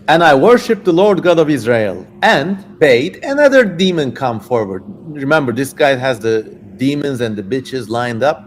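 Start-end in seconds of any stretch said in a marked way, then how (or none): 0.1-4.8 lightly voiced old king; King Solomon voice. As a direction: read it like a solemn biblical king. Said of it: "I'm just getting into character now".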